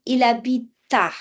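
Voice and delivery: "il habite à" with the t carried onto "à"; linked consonant. Shown as a demonstration. Teacher shows students the enchaînement, linked. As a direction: join it smoothly as "il habi-ta". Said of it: "On dit pas il habite".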